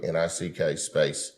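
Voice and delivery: slow, spelled-out customer service voice. Shown as a demonstration. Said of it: "my talking back to customer service voice".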